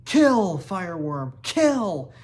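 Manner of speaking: high, loud urging bellow; yelling. A narrator's reading. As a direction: scream him on like a fight fan. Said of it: "broke off from yelling".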